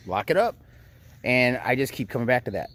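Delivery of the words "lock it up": higher firm command. Retold or imitated. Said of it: "and I'm like".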